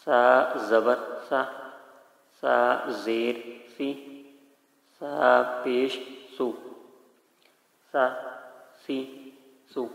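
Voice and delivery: "سا زبر سا" said very slowly; slow Qaida drill; slow clear spelling. Shown as a demonstration. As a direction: sound out "سا پیش سو" syllable by syllable. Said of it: "اس طریقے سے پڑھا جائے گا".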